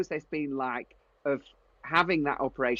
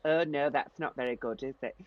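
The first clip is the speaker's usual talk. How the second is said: put-on understated Yorkshire accent, softening at the end; mildly dismayed, in an imitated Yorkshire accent; Linda Barker; 2 semitones lower, 3 dB quieter than usual. Designer seeing teapots smashed on the floor, imitated Yorkshire accent. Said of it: "like Linda Barker off Changing Rooms".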